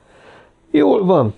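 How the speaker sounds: mildly enthusiastic agreement; lelkes. A narrator's reading. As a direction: agree with a touch of eagerness. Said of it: "lelkesedett Ferguson". (visszafogott lelkesedés)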